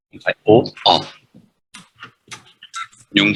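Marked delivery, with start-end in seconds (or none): 0.4-0.5 O said as an open "aw" sound. Shown as a demonstration. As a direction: say O with the mouth more open, as in "or". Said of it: "không phải O mà là O". (âm O mở)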